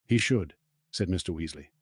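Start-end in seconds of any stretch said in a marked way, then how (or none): 0.1-0.5 smiling. Acted.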